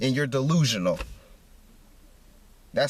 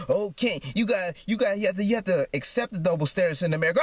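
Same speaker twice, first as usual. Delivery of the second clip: higher, fast singsong mimicry of preachy people; mocking singsong quote; 4 semitones higher than usual. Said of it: "people wanna tell me".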